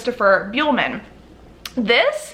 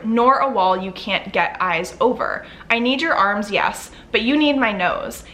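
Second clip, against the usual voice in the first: measured read-aloud of a novel; story narration. A narrator's reading. Vlogger reading a favorite book passage to viewers, story narration.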